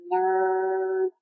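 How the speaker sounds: low, soft drawn-out jeer; mock jeer. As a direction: imitate a classmate's dopey taunt. Imagines classmate jeering at her.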